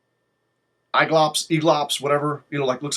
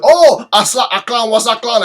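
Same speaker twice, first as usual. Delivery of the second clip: high, loud "Oh" and then a sudden "Aklan was Aklan"; hammed-up exclaimed understanding; mock dawning recognition; 7 semitones higher, 10 dB louder than usual. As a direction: play the vendor finally getting it. Vendor's sudden recognition, retold.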